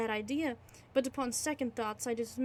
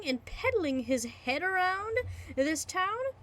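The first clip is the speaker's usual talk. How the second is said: higher, hammed-up outrage; mock towering rage; 4 semitones higher than usual. Narrator rages at the landlord about the head, mock anger. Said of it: "Getting into a towering rage".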